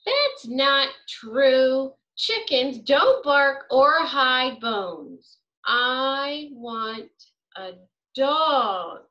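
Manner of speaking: slow, emphatic correction; firm objection. Acted. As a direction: spell it out like a child who won't budge. Child argues with the worker.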